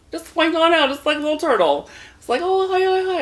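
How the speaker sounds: very high, loud cartoon squeak; squeaky little turtle voice. Mocking a date's tiny penis as a little turtle, in a squeaky cartoon voice. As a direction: give it a tiny, chirpy cartoon voice.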